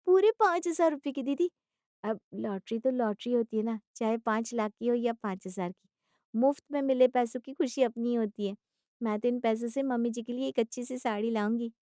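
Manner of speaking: high opening burst, then earnest chatter; cheerful young wife voice, settling down; proud daughter-in-law. Acted. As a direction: announce it proudly and innocently.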